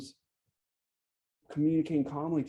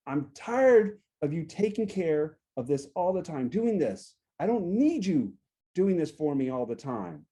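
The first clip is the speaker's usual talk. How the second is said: fed-up complaint; 3 semitones higher, 3 dB louder than usual. Acted. Coach demonstrating what not to tell your partner, fed up. Example of a conflict-starting complaint.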